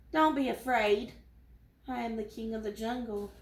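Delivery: thin, scratchy sore-throat voice; weak scratchy voice. Acted. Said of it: "in a very weak, scratchy voice".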